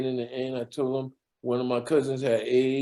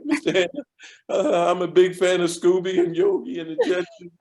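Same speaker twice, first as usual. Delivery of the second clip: sucking up; 5 semitones higher than usual. Retold or imitated. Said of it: "I like the way you talked before".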